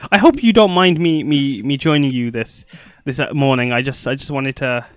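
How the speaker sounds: nervous, stammering character voice; stage fright. Acted. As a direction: stumble over the words nervously. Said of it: "sorry, I'm nervous".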